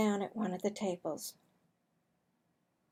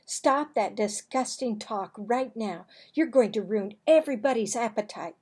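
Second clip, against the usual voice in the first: scolding; 5 dB louder than usual. Acted. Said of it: "she scolded".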